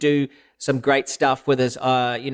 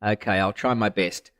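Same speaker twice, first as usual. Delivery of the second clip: sneering; 5 semitones lower, 3 dB quieter than usual. Pretend. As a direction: talk down to a fool. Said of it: "kinda try to sneer in your voice".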